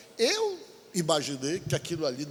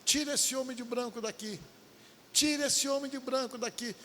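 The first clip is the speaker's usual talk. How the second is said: higher-pitched mock cry of a possessed girl; girl's cry, imitated, higher; 8 semitones higher than usual. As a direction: replay her demanding they remove the man. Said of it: "começou a gritar assim".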